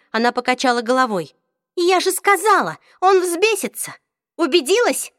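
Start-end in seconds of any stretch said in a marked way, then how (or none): 1.8-2.8 high, loud I-told-you-so; high loud triumphant told-you-so. Acted. 3.0-5.1 high and loud, exasperated; loud high scolding. Acted. Isabelle scolding after being proven right.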